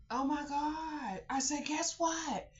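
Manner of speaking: put-on high sing-song voice for a little kid; high playful child-directed voice; talking to a child. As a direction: coo at the child. Talking sweetly to little kids.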